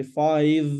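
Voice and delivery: FIVE drawn out on its own with a clear v; said separately. Shown as a demonstration. Teacher drilling one word with a student, said separately. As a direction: set FIVE apart, ending on v. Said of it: "Say five separately".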